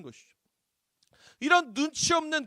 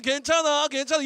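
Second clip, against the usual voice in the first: loud, higher, cheery brush-off; clueless husband; 6 semitones higher, 7 dB louder than usual. Retold or imitated. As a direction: toss off comfort without listening. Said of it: "이러고 얼마나 꼴보기 싫어". (눈치 없이 달래는 남편)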